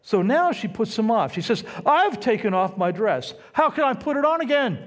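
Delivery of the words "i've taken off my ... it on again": higher and faster, exasperated; frustrated bride. Retold or imitated. Bride putting off her late groom, exasperated. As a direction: toss the excuse off, put out. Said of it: "Remember, she's frustrated".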